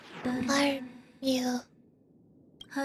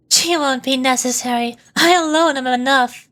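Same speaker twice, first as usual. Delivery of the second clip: louder, commanding read of the line; proud character line; 6 dB louder than usual. Acted. Voicing a character who refuses help, louder and commanding. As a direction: declare it like nobody else is needed.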